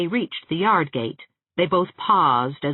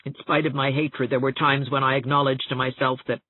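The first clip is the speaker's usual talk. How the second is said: gasping, tearful outburst; 2 semitones lower than usual. Acted. Catherine to Anne, bitter and tearful. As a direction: let the hurt spill over in gasps.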